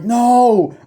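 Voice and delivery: high, loud, drawn-out cry of no; panicked mock cry. Boat passengers as it tilts over, mock panic. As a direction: wail it out as a retold panic.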